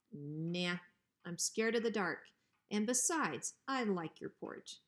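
a hint of sly menace; hint at what you want, coolly; lightly voiced bully dog. Bruiser slyly asking Hank for his porch.

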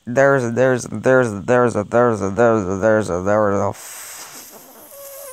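low, slow drawn-out stalling; low teasing countdown; low suspense drone. Acted. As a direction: drag out the suspense before the number.

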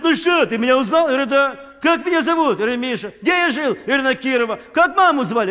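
high, loud excited questions; eager quizzing. Retold or imitated. Old friend testing if he's remembered, high excited questions. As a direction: fire off questions, thrilled.

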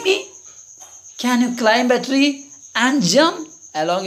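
lightly voiced squirrel, questions rising high; mildly affronted, pitching each challenge up; indignant squirrel. Squirrel challenges teasing frog, lightly acted indignant voice.

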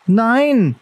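high, loud grim cry of refusal; a boy shouting no, fiercely. A narrator's reading. Boy refuses to give up pup, grim shout. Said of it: "schrie Bran grimmig auf".

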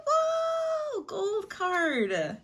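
very high, slow thrilled shout; excited shout. Real, not acted. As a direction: cry it out in delight. Big pull in pack opening.

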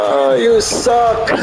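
slow taunt through laughter; laughing taunt. Real, not acted. Gamer taunting his opponent, slow laughing jeer. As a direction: drag out the insult while laughing.

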